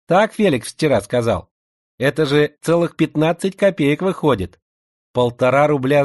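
slushy sh for s. Acted. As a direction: lisp every s into a slushy sh. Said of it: "своим шепелявым голоском".

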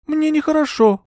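put-on high young woman's voice, faltering; a dazed young lady explaining; young heroine. A narrator's reading. Euphemia explains herself to Bertram, high and faltering.

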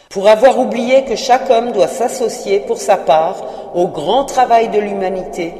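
lamenting ghost. Acted. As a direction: preach his regret like a doomed spirit.

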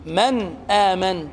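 slow, the ن of من said clearly before آمن; clear nun, izhar. Shown as a demonstration. Teacher demonstrating izhar on من آمن, slow and clear. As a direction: say من آمن with a clean ن and no nasal hum. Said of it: "تنطق النون من آمن".

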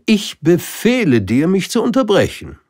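high, loud hurried order; hasty king. Acted. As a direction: rush to command it. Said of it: "sagte der König eilig". (eiliger König, hoch und laut)

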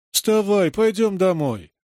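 put-on high, wailing little girl; детский плач; child pleading. A narrator's reading. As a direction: beg mommy to get up. Children wake dead mother.

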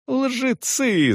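high yelled accusation; outraged cry. A narrator's reading. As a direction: hurl the word at them. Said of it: "заорал Салон".

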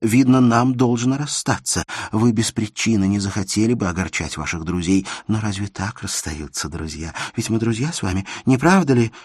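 put-on young woman begging her friend not to go; Elena, pleading. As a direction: press him not to leave, voice lifting.

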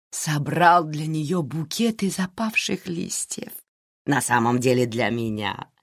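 dreamy. Acted. A woman recalls Givi's bouquet, slow and dreamy. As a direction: savour the memory slowly.

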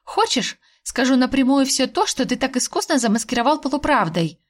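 a touch of a snarl; short snarl. Acted. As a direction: lash out before you can stop. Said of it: "коротко рыкнула я".

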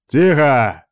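громкий резкий окрик, выше тоном; рявкни на всю аудиторию; рявкнул. A narrator's reading. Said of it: "рявкнул профессор". (профессор рявкает на болтающих студентов, громко)

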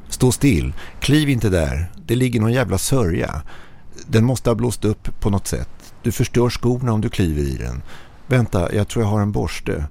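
Swedish: panisk varning; urgent panicked warning. Acted. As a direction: stop him before he steps in it. Panicked warning about the sand.

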